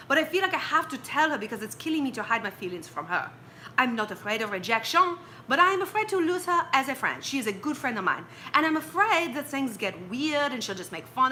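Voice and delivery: reading the letter in a mock French accent. Host reads French fan's letter aloud, in mock French accent. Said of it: "Should I read this in a French accent?".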